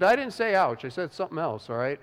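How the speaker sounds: mock indignant comeback; retold angry retort. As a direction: snap back that you didn't say ouch. Retold angry reply from a man.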